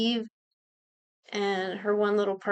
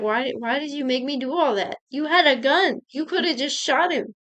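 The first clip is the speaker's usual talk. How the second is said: higher and louder, accusing on "had"; retold indignant outburst; 4 semitones higher, 4 dB louder than usual. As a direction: demand why, stunned and angry. Eve confronts Villanelle over gun.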